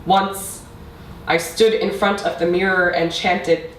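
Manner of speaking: measured recital with long pauses; spoken-word poetry. Acted. Poet addressing mother about a lost language, measured spoken-word delivery. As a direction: let each line land before the next. Recites own poem to audience.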